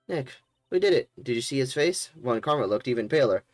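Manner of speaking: put-on high, bright cheer of a young assistant; excited girl. Assistant cheering her friend after the trial, excited.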